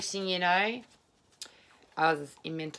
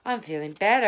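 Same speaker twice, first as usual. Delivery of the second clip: relieved; 5 semitones higher, 3 dB louder than usual. Retold or imitated. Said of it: "all of a sudden I go".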